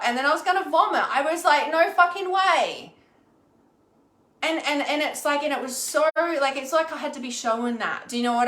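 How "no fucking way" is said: high, loud, drawn-out refusal; emphatic mock refusal. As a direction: refuse it slowly and loudly, pitch up. Retold refusal to hold back nausea.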